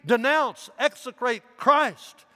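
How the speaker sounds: high, loud command; pressing. A narrator's reading. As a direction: bear down on him, high and loud. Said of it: "The governor pressed him further".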